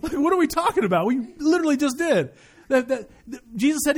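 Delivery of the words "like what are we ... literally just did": higher, incredulous protest with laughter; amused disbelief. Acted. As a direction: call out an obvious fib, half laughing. Mock disbelief at student's denial.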